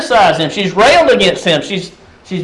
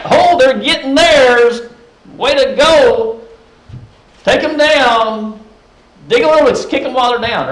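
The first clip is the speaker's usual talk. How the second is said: gloating; 4 semitones higher than usual. Retold or imitated. Preacher voicing our secret glee at Miriam's punishment, mock gloating. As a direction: savour the enemy's downfall, half joking. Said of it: "We might kind of stand back and enjoy that".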